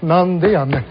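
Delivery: clumsy Kansai dialect retort, laughing; a bad Kansai line mid-laugh; bad Kansai accent. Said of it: "下手な関西弁で".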